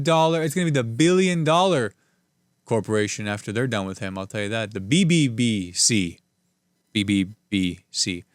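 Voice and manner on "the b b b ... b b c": stilted droid voice, flat and mechanical; C-3PO style droid voice; robot voice. Pretend. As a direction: talk like a clunky robot. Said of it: "I sound like, uh, C three P O".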